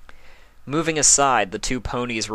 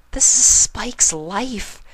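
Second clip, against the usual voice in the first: higher, drawn out slowly; slow and earnest; 5 dB louder, much slower than usual. Acted. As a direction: lay each word down heavily. Pinkie stresses importance.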